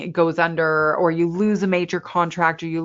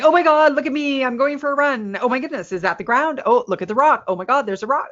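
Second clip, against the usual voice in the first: higher, hammed-up frantic fuss over a simple run; mock stressed fuss; 4 semitones higher, faster than usual. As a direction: overdramatize every little thing on the path. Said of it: "and going".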